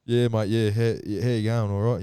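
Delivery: hammed-up bouncer. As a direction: lightly play the cheerful bouncer. Mocking bouncer greeting.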